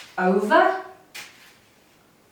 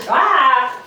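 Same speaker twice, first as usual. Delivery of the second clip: startled yelp; 4 semitones higher, 7 dB louder than usual. Real, not acted. Misses a catch mid-demonstration.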